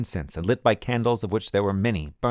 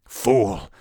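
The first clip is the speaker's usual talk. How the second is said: louder shout at him; 5 dB louder than usual. A narrator's reading. General shouting at the adjutant. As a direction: snap the insult out. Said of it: "the general shouted at the adjutant".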